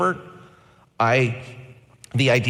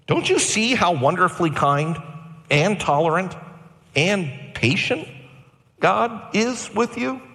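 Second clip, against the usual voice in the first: accusatory; 5 semitones higher than usual. Retold or imitated. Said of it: "almost accusatory".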